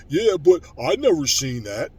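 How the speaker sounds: slow, loud whiny mock voice; mocking a critic. Ranting vlogger mocks fans who doubt him, slow and loud. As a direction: mimic the doubters with scorn. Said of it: "you got stupid motherfuckers".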